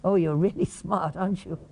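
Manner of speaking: sarcastic. Shown as a demonstration. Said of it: "Is that a different message from".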